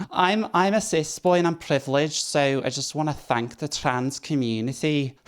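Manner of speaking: high mock posh English accent, clearly put on. Retrying the cis speaker's line in a posh accent. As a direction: ham up a posh English speech voice. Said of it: "trying to do the accent".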